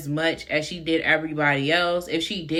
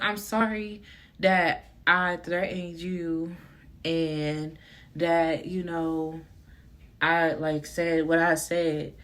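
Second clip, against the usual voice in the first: softer, slow half-hearted sorry; retold tearful apology; 4 dB quieter, slower than usual. Student apologizing to teacher, softer mock-tearful. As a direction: mumble an apology while holding back laughter. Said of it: "I'm crying and I'm like".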